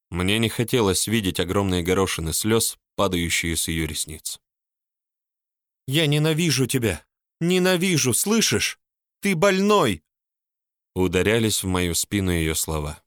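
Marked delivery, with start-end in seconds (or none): 5.9-10.0 high, shrill-pitched tearful hatred; hateful scream. A narrator's reading. Polina screams hatred at Mark's back, high. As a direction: hurl it at his back.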